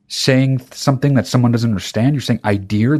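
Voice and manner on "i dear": "I dear" said as idea with an r stuck on. Shown as a demonstration. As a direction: say "I dear" with a clear r at the end. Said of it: "it's not a word".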